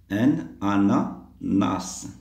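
very slow "ananas", split into parts; slow word model. Shown as a demonstration. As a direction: draw out "Un", then space out "ananas". Teacher models the word slowly. (prononciation très lente, découpée)

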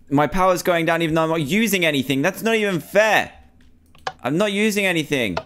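high, aggrieved complaint; indignant protest. Real, not acted. Player watching power drain for nothing, indignant.

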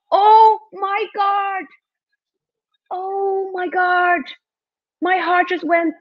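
high, stretched-out cries of amazement; overwhelmed by the goal, voice way up; emotional disbelief. Real, not acted. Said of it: "I'm getting emotional".

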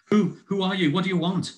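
gasped questions. Acted. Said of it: "I gasped".

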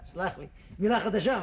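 chuckling through an apology; laughing. Acted. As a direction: laugh it off sheepishly. Laughs at his own mistake.

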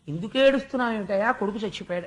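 quick baffled retort, ఏడుస్తున్నావు rising; mock the question as absurd, fast; incredulous king. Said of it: "ఏదో సరదాగా ఏడుస్తున్నట్టు". (ఆశ్చర్యంతో, ఎగతాళిగా ఏడుస్తున్నావా అని అడిగే రాజు)

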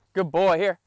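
excited praise. Real, not acted. Praising puppy on retrieve.

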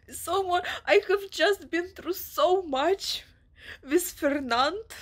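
overwhelmed, on the edge of crying; real emotion on "I have just been through so much"; emotional. Real, not acted. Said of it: "This book is making me very emotional".

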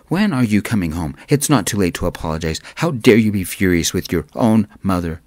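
angry mother, building to a yell. Acted. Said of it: "she yelled".

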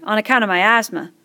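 worried schoolboy asking; fat boy voice. Acted.

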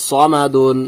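সমাদুন drawn out, first syllable a thick "saw"; full rounded স opening সমাদুন; heavy pronunciation. Shown as a demonstration. Teacher answering how to say it, heavy rounded start on সমাদুন. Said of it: "এখানে মোটা করে উচ্চারণ করতে হবে".

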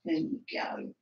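breathy whisper, no voice; hushed whisper offering a treat; whisper to the dog. Real, not acted. Giving the dog a biscuit.

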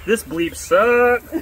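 "bleep" said aloud in place of the swear. Shown as a demonstration. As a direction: speak the word "bleep" for the curse. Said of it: "I'll have to bleep out the swear word".

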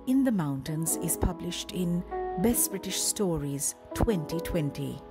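measured, scripted introduction read; announcer bio read. Acted. Host introduces a guest author to listeners, announcer bio read. Reads author biography over music.

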